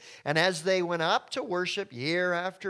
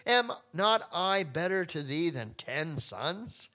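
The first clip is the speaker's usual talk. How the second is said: smug husband; slower than usual. Acted. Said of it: "Then he says".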